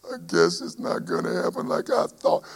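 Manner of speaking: soft, resigned mock doubter; quietly giving up on the promise; doubting believer. Preacher mimics a doubter's quiet resignation. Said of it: "You don't say".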